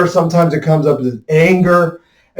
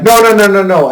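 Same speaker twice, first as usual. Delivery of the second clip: loud, much higher string of no's; refusing; 6 semitones higher, 5 dB louder than usual. Retold or imitated. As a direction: push back hard, half-yelled. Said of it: "And I'm like".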